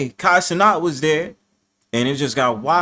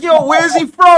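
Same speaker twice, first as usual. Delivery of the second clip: mock curious question; 10 dB louder, slower than usual. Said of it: "They was like".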